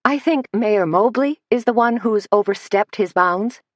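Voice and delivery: cool and clipped rebuke; chilly tone. Acted. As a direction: put a chill in it. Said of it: "her tone chilly now".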